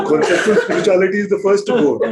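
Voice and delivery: said through loud laughter; laughing. Real, not acted. Teacher laughing while mocking book spirituality. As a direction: push the words out while laughing.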